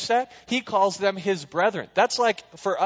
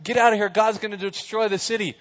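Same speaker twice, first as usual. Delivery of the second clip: urgent warning; 5 semitones higher than usual. Retold or imitated. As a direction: shout the warning to the sons-in-law. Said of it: "He runs out to his sons-in-law".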